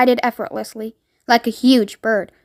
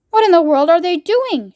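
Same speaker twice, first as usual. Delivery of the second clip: shouting; 5 semitones higher than usual. Acted. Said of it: "shouted the President".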